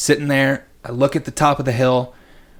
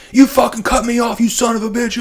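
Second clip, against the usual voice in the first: mock screaming; 11 semitones higher than usual. Biker yelling at him for cutting him off, mock screaming. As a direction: throw it out like the angry biker. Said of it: "screaming and screaming".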